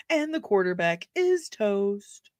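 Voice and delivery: slow, moderate volume, stretched IS; slow quote delivery. Acted. Streamer repeating a favorite line, slow and restrained. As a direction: draw out IS without projecting. Same film quote, softer take.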